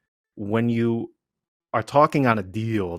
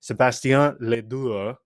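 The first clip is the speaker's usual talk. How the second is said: imitating French pronunciation; 3 semitones higher than usual. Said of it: "the loveliest way somebody has ever said my name".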